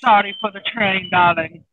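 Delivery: answering in a hammed-up European accent; put-on European accent, greeting a friend; mock European accent. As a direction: play along with a badly faked European accent. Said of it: "our attempt at butchering a European accent".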